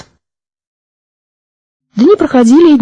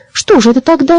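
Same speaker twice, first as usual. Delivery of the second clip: embarrassed question; 8 semitones higher than usual. A narrator's reading. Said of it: "смущённо спросил маленький водяной".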